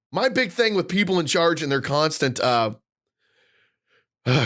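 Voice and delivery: winded after a rant; breathless, catching breath. Real, not acted. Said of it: "I'm trying to catch my breath".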